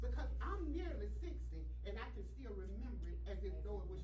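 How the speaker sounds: loud, emphatic church testimony; preaching testimony. Real, not acted. Testifies to congregation at raised volume.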